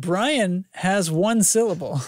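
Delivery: lingering light Kentucky drawl; Kentucky accent. Pretend. Host explaining the accent after the reading, light Kentucky drawl. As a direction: keep a touch of the Kentucky accent. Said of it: "In Kentucky accent".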